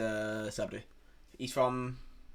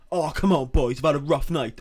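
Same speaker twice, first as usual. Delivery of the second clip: loud, raised-voice mock plea; pleading cadger; 3 semitones higher, 7 dB louder than usual. Man begging a cigarette off the boys, loud imitated plea. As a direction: wheedle loudly, imitating the cadger.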